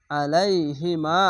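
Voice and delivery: slow "আলাইহি মা" with "মা" held before stopping; drawn-out stop. Shown as a demonstration. Teacher showing the pause after alif, last vowel drawn out. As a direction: stretch "মা" one alif, then stop. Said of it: "থামতে গেলে এক আলিফ টেনেই থামবেন".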